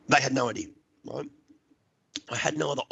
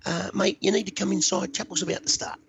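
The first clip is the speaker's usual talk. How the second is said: higher voice for an unruffled lady; politely interrupt, entirely unfazed; imitated calm woman, pitched up; cool, composed lady; 9 semitones higher than usual. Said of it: "cool as a cucumber".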